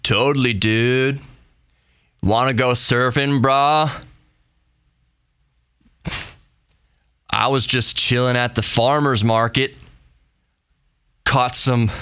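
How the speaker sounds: badly faked surfer-dude accent; terrible West Coast accent. Shown as a demonstration. Host mimicking a surfer dude, terrible West Coast accent. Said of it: "That was a terrible West Coast accent".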